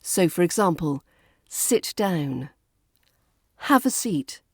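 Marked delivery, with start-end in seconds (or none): 1.5-2.5 "Sit down." with weight on Sit, falling to the end; stress on the verb. Shown as a demonstration. English teacher modelling an imperative, stress on Sit. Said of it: "to stress the verb at the beginning". 3.7-4.4 "Have" hit high, "a seat." falling away; stress on the verb. Shown as a demonstration. English teacher modelling an imperative, stress on Have. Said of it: "to stress the verb at the beginning".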